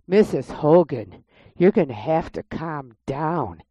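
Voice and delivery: slow, measured nurse voice; imitated calm nurse. Nurse telling the screaming patient to calm down, slow and firm. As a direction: talk her down, firm and slow.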